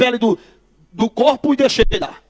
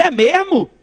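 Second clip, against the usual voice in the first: higher-pitched mock surprise; mocking disbelief; 5 semitones higher, much slower than usual. Pastor answers a macumba threat, mocking disbelief. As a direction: scoff at the threat in a raised voice.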